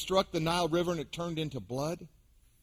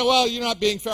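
mock listener protest; 4 semitones higher, 6 dB louder than usual. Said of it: "You say".

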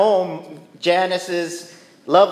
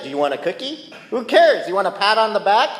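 sarcastic; 5 semitones higher than usual. Retold or imitated. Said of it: "what I'm feeling inside is".

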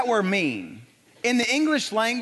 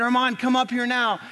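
urgent command; 5 semitones higher than usual. Retold or imitated. Father urging son to climb.

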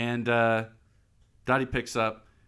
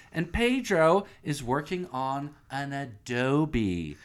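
fake tour guide; 3 semitones higher than usual. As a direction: present the exhibit with pride. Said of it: "fake-ass tour guide".

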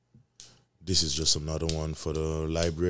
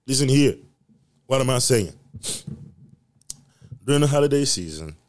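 emphatic; 6 semitones higher, 5 dB louder than usual. Real, not acted. Rant starts.

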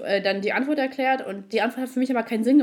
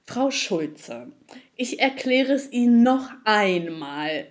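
condescending agent; much slower than usual. Retold or imitated. Frau Schulze hears the agent's patronising repeat, slowly. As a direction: spell it out slowly like to a child. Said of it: "Und dann meinte er so".

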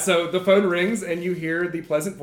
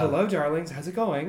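femme fatale; 3 semitones lower than usual. Acted. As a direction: purr the greeting like a glamorous grandma. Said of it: "And she's like".

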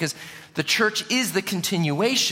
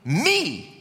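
voice of Jesus; 7 semitones higher, much slower than usual. Retold or imitated. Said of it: "He said".

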